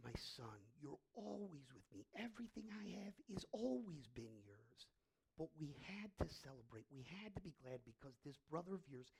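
soft, hushed fatherly reassurance; gentle pleading. Acted. Father pleading with his angry older son, gentle and soft. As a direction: plead softly, with quiet tenderness. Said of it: "he pleads with his older son".

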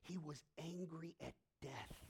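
usual speaking voice

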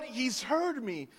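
slow on He's heard me, weighing each word; slow, emphatic. Real, not acted. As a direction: let it land slowly. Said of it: "slow emphatic testimony".

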